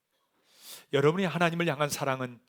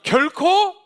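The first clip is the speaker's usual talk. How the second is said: raised, emphatic sermon delivery; forceful preaching; 7 semitones higher, 8 dB louder than usual. Real, not acted. Preacher urging congregation that the old has passed, forceful. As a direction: drive the scripture home to the congregation.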